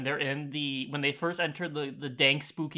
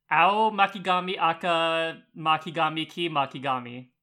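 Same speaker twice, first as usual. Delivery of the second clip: slow twister. Shown as a demonstration. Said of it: "Faster. You cheated".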